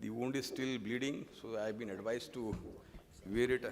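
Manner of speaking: muffled behind a surgical mask; speaking through a face mask. Real, not acted. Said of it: "Pardon my mask".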